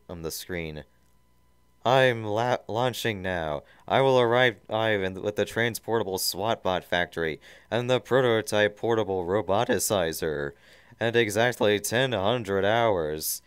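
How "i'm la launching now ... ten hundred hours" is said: loud, raised tyrant voice; villain's announcement. Acted. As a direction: announce the plan with menace. Villain transmitting orders over screen.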